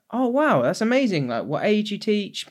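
a hammed-up, overeager "oh wow"; mock gushing. Retelling his own small talk to the teacher, mock enthusiastic.

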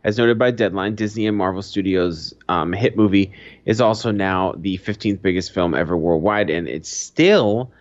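steady read-out news delivery. Acted. Reading box office news to the listener, steady news read. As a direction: read it like a headline.

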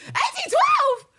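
very high, loud shocked shriek. Retold or imitated. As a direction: shriek the date back in disbelief. Aunt echoing the date in shock.

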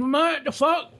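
high-pitched incredulous exclamation; mock disbelief. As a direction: pitch shoots right up in joking shock. Acting out his shock, joking.

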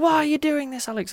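high pitched whine; high whiny voice. Retold or imitated. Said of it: "you're gonna be like".

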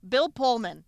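slow, drawn-out swoon; mock swoon. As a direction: sigh his name like a crush. Swooning over actor.

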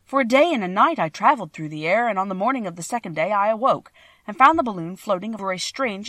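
lively storybook reading with lilting emphasis; story narration. A narrator's reading. Balloonist recounts drifting to a strange country, storytelling. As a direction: read it like an adventure tale, stressing key words.

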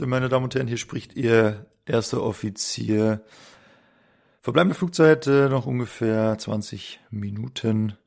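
calm cockpit announcement to passengers; first officer greeting the cabin; airline pilot announcement. Pretend. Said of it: "ich muss schon mal üben".

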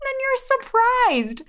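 high squeaky mock-surprised repeat; mock surprise. Shown as a demonstration. To listeners, mocking people who act shocked, high fake surprise. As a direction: pitch way up, fake astonishment at the obvious. Repeats line, second take mocked.

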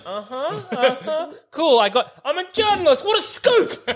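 high, laughing sarcastic uh-huh; laughing mock reporter. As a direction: scoff through laughter at the news. Mocking reply to Superman reveal.

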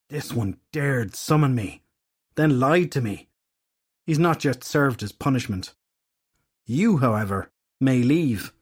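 stern fairy goddess. Acted. Nemain laying down Edgar's punishment, cold and commanding.

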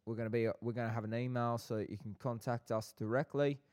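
lightly put-on South London accent; playful South London farewell. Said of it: "do it for an entire farewell".

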